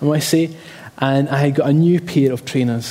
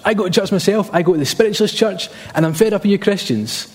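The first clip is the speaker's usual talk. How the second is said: higher, imitated fed-up dad; ranting dad; 5 semitones higher than usual. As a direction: mimic a dad's mild rant. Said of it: "in a bit of a rant".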